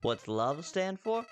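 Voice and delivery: sing-song flower lecture with high leaps; swooping, over-sweet character voice; talking flower, falsely friendly. Acted. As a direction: teach like a chirpy cartoon host. Reads Flowey's lines.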